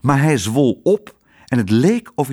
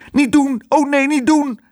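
pleading cry; 13 semitones higher than usual. A narrator's reading. Otje begs her father not to throw the dish, crying out high. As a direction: cry out to stop him. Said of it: "riep Otje".

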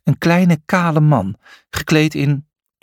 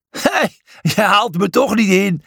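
laughing taunt; 7 semitones higher than usual. A narrator's reading. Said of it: "zei hij lachend".

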